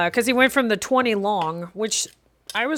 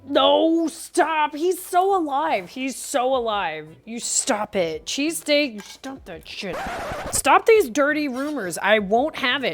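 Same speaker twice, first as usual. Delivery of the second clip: mock indignant; 4 semitones higher than usual. Playfully denying that Beefy is dead.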